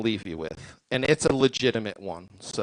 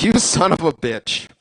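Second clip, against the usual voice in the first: mock outraged yell; 5 semitones higher, 8 dB louder than usual. Acted reaction to midgets reveal.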